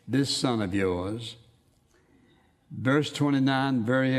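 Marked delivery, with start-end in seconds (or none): 0.1-1.4 "This son of yours" slow, every word stressed; pronounced words. Shown as a demonstration. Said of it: "he makes those words very, very pronounced".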